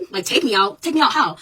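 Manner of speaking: stunned, push back at the threat; incredulous. Retold or imitated. Student answering officer's arrest threat, incredulous. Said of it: "I'm like".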